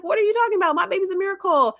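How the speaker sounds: high-pitched mock protest; imitated indignant mother. Mother protests in retold scene.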